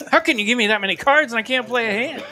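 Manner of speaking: incredulous outburst with a laugh; exasperated disbelief. Retold or imitated. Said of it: "I was like".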